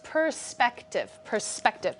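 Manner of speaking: perSPECtive, middle syllable stressed; teacher modelling syllable stress. Shown as a demonstration. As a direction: say perspective with weight on SPEC. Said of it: "the middle syllable is emphasized".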